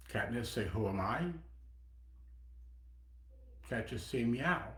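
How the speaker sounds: a teacher's gentle Korean accent, hammed lightly; bad Korean accent. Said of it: "I'm gonna be, do a really bad Korean accent".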